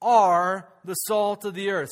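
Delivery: slow, loud, every word weighted; preacher declares it to the congregation, slow and loud; emphatic proclamation. Acted.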